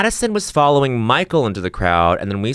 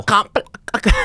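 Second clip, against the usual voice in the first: put-on Scouse accent; 11 semitones higher, faster than usual. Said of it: "do a northern accent".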